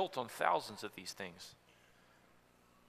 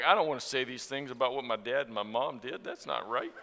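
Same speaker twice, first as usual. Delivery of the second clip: embarrassed laughing; 3 semitones lower than usual. Retold or imitated. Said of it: "I'm like".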